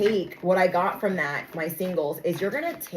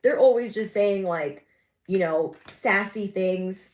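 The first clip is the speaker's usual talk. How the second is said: raised pitch, brushing off a bully; naive excuse; 2 semitones higher than usual. Retold or imitated. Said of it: "maybe you were like".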